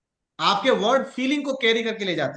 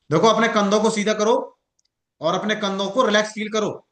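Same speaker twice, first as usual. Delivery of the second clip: blunt instruction. Shown as a demonstration. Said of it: "मैं ऐसे भी बोल सकता हूं".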